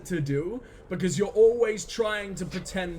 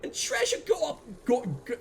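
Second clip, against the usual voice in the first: mock Southern accent; 5 semitones higher than usual. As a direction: ham up a Southern accent reading chat. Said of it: "in an approximation of your accent".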